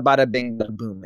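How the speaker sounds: put-on a light British accent on a jaunty catchphrase; half-hearted British flourish. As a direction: toss it off in a mild British accent. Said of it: "bada boom in a British accent".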